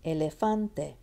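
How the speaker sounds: "Elefante" as e-le-FAN-te; stressed third syllable. Shown as a demonstration.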